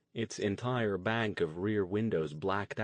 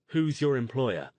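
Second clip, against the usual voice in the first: higher, louder demand; 4 semitones higher, 5 dB louder than usual. A narrator's reading. Stone confronting the armed man in the limo, demanding. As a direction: press him hard for an answer. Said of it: "Stone demanded".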